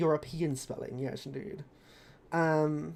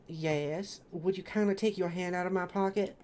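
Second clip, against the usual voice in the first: polite southern accent, lightly acted; mild southern character voice; 3 dB quieter than usual. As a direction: request it firmly in a southern accent. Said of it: "Echo has a southern accent".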